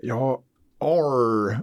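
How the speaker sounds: drawn-out Boston "arr" with a wide-open A; Boston accent. Shown as a demonstration. Co-host shows how Bostonians sound, exaggerated Boston accent. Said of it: "De har lite speciell dialekt också".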